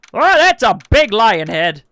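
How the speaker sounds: excited. Real, not acted. Seeing lion head.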